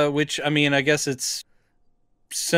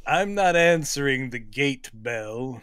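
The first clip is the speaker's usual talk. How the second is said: Heston impression. Co-host as Heston refusing the gate bell, mock stubborn. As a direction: declaim it like a stubborn screen star. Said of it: "as we're doing this voice".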